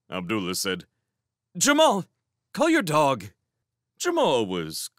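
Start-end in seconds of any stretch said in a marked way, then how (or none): 1.6-3.3 high, loud call to the dog's owner; raised, urgent appeal; calling out urgently. Acted. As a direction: call out for help with a dog. Calling for help with dog.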